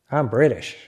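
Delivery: an American accent saying I'm British; mild American accent. Shown as a demonstration. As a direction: insist you're British in a plain American accent. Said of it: "with an American accent".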